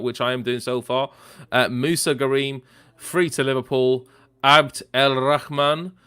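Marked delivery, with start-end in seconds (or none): 4.4-5.9 "Abd El Rahman" with a throaty Arabic kh in "Rahman", raxman; careful Arabic-style "Abd El Rahman"; Arabic name pronunciation. Shown as a demonstration. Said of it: "the accent there".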